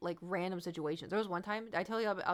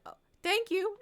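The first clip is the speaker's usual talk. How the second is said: high, loud squeaky gratitude; flustered thanks; 13 semitones higher, 7 dB louder than usual. Retold or imitated. Streamer thanking a fan on the escalator, flustered. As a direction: chirp it, caught off guard.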